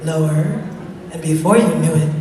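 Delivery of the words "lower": deep settled voice; even deeper voice. Shown as a demonstration. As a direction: lower still, settling down. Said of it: "I said".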